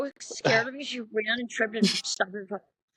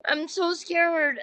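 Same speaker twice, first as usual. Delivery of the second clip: retold plea; 6 semitones higher, slower than usual. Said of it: "I was like".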